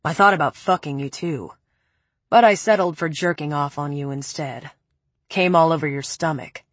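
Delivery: a hint of a low, cold man. Preppy's cold voice.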